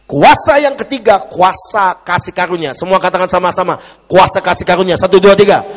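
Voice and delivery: rally the crowd to repeat after you; forceful preaching. Real, not acted. Preacher cueing congregation to say it together, forceful call.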